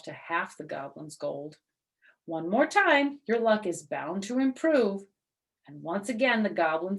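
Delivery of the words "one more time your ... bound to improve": bright, higher, coaxing push; coaxing Herschel. Acted. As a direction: egg him on to spin again.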